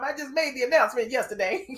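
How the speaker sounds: mock snappy retort. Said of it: "She said".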